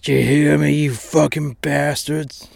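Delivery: loud and rough, calling him out; yelling up the stairs. Acted. Disabled man yelling at the brothel staff, loud and rough. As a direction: bellow it to draw the pimp down.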